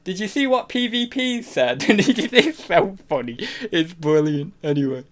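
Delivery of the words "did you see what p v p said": high-pitched put-on voice; bad impression of friend. Streamer mimicking her telling Tommy, high imitated voice. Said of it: "she'll say to Tommy".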